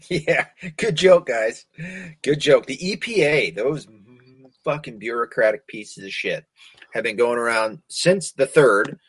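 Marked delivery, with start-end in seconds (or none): 0.1-2.7 sarcastic. Real, not acted. Sarcasm at government claim.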